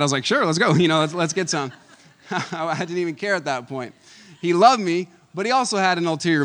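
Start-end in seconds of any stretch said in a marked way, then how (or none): 0.2-1.7 cheerful yes. Retold or imitated. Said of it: "I wasn't even mad".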